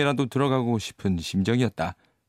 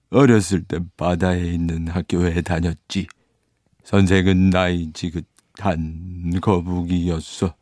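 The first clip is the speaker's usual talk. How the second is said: tearful; 4 semitones lower, slower than usual. Acted. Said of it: "흐느끼면서 이야기를 이어나갔다".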